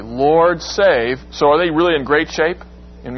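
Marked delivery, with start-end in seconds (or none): 0.0-1.2 humble entreaty. Shown as a demonstration. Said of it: "sounds like a humble entreaty".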